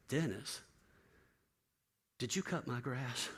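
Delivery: soft, slow, fragile asking; a broken man barely asking; hushed, slow disbelief; quiet, stunned question. Retold or imitated.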